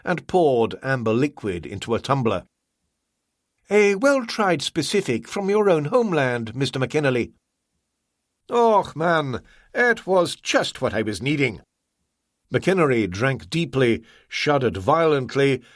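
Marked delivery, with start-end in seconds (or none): 3.7-7.3 higher, smooth merchant offering a drink; Ah Wong, courteous. Acted. 8.5-11.6 broad grateful Scots; hearty Scottish thanks; Scottish accent. Acted. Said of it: "phony accent".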